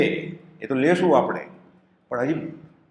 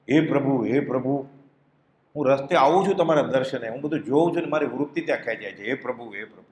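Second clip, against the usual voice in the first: pleading cry; 3 semitones lower than usual. Retold or imitated. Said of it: "પોકાર કરે છે".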